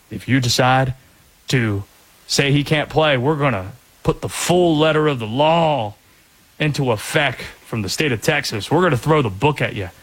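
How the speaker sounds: put-on Southern accent. Texas attorney general threatening the Big Twelve, imitated Southern accent. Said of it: "I did a Southern accent like that".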